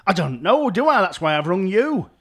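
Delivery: snapping at the useless help desk; angry caller. Acted. Caller snaps at the help desk man, exasperated and loud.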